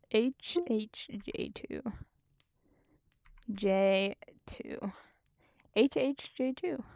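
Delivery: talking through hiccups; hiccuping between words. Real, not acted. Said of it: "Oh no, I got the hiccups".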